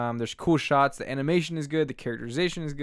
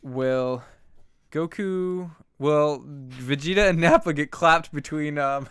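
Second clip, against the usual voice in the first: slow dramatic teaser; trailer announcer voice; 4 dB louder, slower than usual. Pretend. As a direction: tease the next episode like a TV narrator. Podcast outro teaser.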